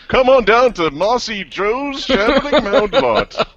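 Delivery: high, slow laughing car lot pitch; hard sell ad. Pretend. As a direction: ham up a cheesy TV ad.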